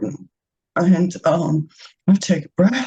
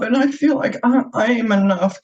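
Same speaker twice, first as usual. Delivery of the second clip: crying; 5 semitones higher than usual. Real, not acted. Thanking the healing circle, real tearful crying. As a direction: voice high and tearful with emotion. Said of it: "I want to apologize for crying".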